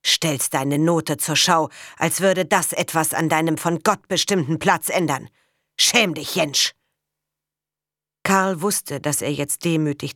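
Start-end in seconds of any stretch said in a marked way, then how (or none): 0.0-6.7 stern rebuke. Acted. Farmer scolding the labourer's son for pride, stern rebuke.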